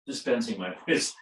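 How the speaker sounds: chuckling through the words; can't keep a straight face; laughing. Real, not acted. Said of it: "can't even say that with a straight face".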